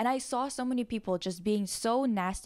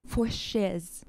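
mock Jay slang. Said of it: "Not me saying that with my fucking accent".

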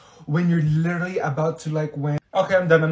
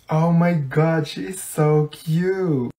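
gushing coo; much slower than usual. Acted. Cooing over a dog photo.

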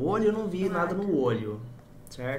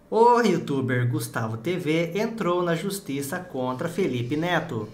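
voz de robô do Treta News; slower than usual. Retold or imitated. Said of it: "Parece ser do Treta News".

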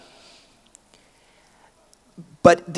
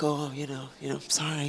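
mock sorry; 2 semitones lower, 14 dB quieter than usual. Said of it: "you're sort of like".

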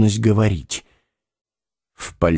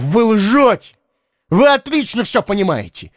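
high accusing shout; angry shout; 10 semitones higher than usual. A narrator's reading. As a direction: hurl the accusation at her. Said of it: "крикнул он ещё громче". (гневный крик)

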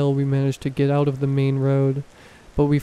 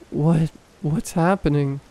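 trembling whisper. Acted. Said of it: "my words coming out in a trembling whisper".

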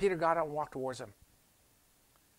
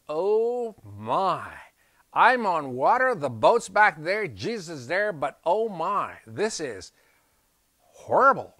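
panicked cry; 3 semitones higher, 7 dB louder, slower than usual. Acted. Peter panicking in the storm.

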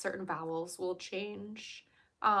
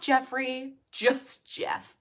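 raised, drawn-out character voice; Jeff Wilson; 4 semitones higher, 7 dB louder, much slower than usual. Retold or imitated. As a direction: do a louder, slowed-down impression. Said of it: "definitely his voice".

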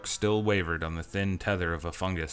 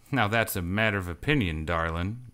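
intoned. Acted. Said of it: "Cash intoned".

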